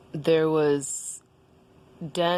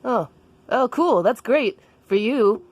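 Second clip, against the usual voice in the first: high, awkwardly supportive voice; Daniel; 6 semitones higher, 3 dB louder than usual. Acted. Daniel responds to Jessica coming out, high and awkward. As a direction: raise the pitch and stumble into approval. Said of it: "And Daniel was like".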